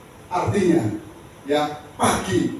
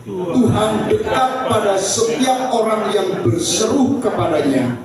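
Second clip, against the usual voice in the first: raised, declaimed Bible reading; scripture reading aloud; 4 semitones higher than usual. Real, not acted. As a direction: lead the congregation through the verse. Leads congregation in reading scripture. (membaca ayat Alkitab dengan lantang)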